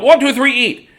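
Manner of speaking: high, loud countdown shout; judge's yell. Acted. Judge yells to start the pie eating, high and loud. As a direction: call the start like a contest judge. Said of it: "He yelled".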